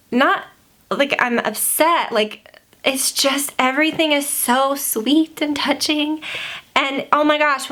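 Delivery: fighting back happy tears, slowly; teary. Real, not acted. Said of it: "tearing up".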